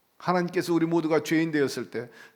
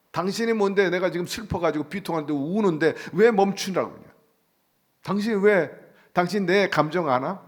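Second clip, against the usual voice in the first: mildly indignant, pitch rising at the challenge; indignant retort; 3 semitones higher than usual. Acted. Grieving widow challenging the stranger who says stop crying, indignant. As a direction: push back, offended at being told to stop.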